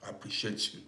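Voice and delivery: whispered thanks. Real, not acted. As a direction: whisper it intimately to her. Thanking viewer for gift.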